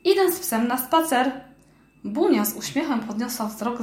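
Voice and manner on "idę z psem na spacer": calling out. Acted. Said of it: "zawołała".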